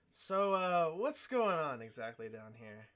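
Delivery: a slow, firm questioning mentor; questioning master. Acted. Norris asks Alexander what is going on, slow and firm. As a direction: ask it slowly and firmly. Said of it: "he looks back at Alexander and he says".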